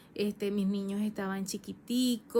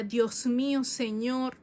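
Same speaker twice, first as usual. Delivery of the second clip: tearful plea; 3 semitones higher, 3 dB louder, slower than usual. Retold or imitated. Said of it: "yo recuerdo que yo lloraba".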